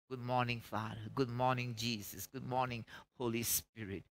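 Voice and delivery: soft, quiet greeting to God; soft morning prayer. Shown as a demonstration. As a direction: gently greet God at dawn.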